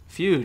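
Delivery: relieved sigh. Acted. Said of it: "James sighed".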